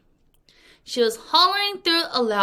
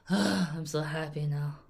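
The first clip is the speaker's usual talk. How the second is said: relieved; 5 semitones lower, 6 dB quieter than usual. Retold or imitated. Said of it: "so she's like".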